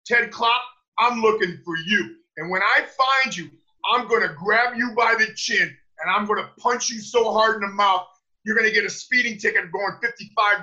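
loud, high hyped-up wrestler promo; wrestling promo. Acted. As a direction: yell it like a heel wrestler. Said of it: "would you be able to cut a promo for us".

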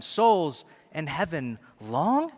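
slow, doubting rise on long; incredulous question. Pretend. Preacher feigning doubt, a slow questioning rise. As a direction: souls in heaven long, asked in disbelief. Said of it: "This is, wait".

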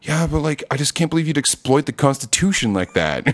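whiny Badger. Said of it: "He's like".

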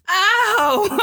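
high, loud mock yelp of a fake fall; fake pained ow. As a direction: yelp like a kid faking a tumble. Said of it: "she used to start falling and go".

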